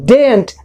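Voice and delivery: daren't as one syllable, DAIRNT with silent r; model pronunciation. Shown as a demonstration. Teacher shows how daren't is pronounced, one syllable. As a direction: say "daren't" as DAYNT, in one beat. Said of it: "इसका pronunciation देखिए".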